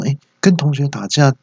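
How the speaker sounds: puzzled disbelief, lightly acted; retold surprise. Father hears son's sport was fighting, mock surprise. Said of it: "我就很惊讶说".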